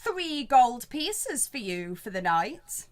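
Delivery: slow, drawn-out pondering over a price; a touch of the obliging landlord, stalling as he calculates; haggling innkeeper. Acted.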